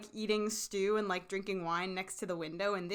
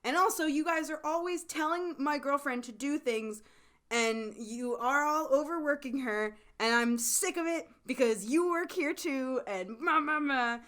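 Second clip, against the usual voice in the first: higher-pitched ranting complaint; mock blow-up; 5 semitones higher than usual. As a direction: imitate a fed-up tirade tailing into babble. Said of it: "it blows up even more".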